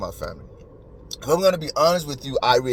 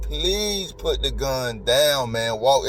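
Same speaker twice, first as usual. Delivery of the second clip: imitated begging; much slower than usual. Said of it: "he was begging the guy".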